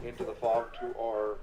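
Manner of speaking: talking through hiccups; hiccuping between words. Real, not acted. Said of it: "Sorry, I got the hiccups all of a sudden".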